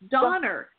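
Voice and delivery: "Donner" closing on an R sound; R-ending name. Shown as a demonstration. Psychic repeating the grandfather's pronunciation, R-ending "Donner". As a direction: make the last vowel of "Donner" an ER. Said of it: "pronounce his A at the end like an R".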